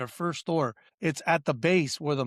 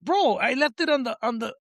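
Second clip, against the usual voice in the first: higher, pushed complaint at the manager; exasperated retold rant; 6 semitones higher than usual. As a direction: vent at him, fed up. Retold angry confrontation with manager.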